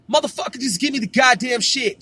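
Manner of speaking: imitating a mom cursing for her fix; demanding mom. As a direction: snap it like she's sick of waiting. Friend's mom demanding crack.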